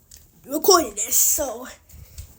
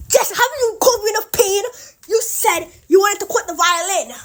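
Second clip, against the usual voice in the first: mock yell; 4 semitones higher than usual. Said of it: "yells at her and says".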